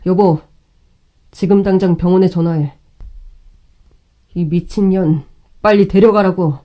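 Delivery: loud furious call to his wife; angry shout. Acted. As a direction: yell the order in rage.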